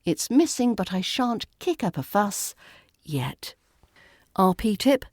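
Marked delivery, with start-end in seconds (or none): 0.0-3.5 muttered aside fading to a whispered "yet"; hint of restrained irritation; passive-aggressive aside. Shown as a demonstration.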